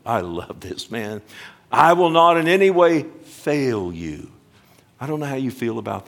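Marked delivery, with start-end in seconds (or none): 1.7-4.3 forceful proclamation. Acted. Preacher reading promise with force.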